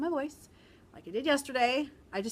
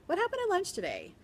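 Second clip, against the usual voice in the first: teacher voice; 11 semitones higher than usual. Retold or imitated. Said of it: "I said".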